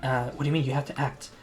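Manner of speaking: lightly voiced excited Abby, searching for a word; flustered Abby. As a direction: fumble for the word, voice rising.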